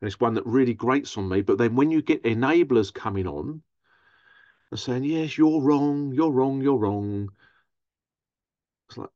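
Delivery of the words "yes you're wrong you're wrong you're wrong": mock insistence. Mimicking enablers insisting.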